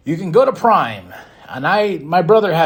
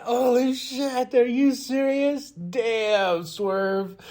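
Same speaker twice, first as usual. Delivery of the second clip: slow, high, hushed amazement; awed hushed slow reaction; stunned disbelief; 8 semitones higher, 6 dB quieter, much slower than usual. Retold or imitated. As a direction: marvel under your breath. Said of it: "I was like".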